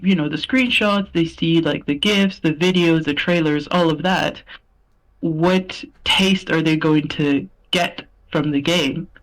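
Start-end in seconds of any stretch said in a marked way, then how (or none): 5.2-9.1 press conference voice. Real, not acted. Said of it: "this isn't the E three press conference".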